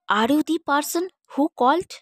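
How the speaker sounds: slow, "the" stressed as thee. Shown as a demonstration. Teacher stressing "the" as thee in a question. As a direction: hit "the" hard, said thee, asking slowly. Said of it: "এখানে the এর উপর জোর দেওয়া হচ্ছে".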